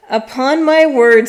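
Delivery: loud, indignant outburst. A narrator's reading. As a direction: bark it out in outrage. Angry magistrate retorts.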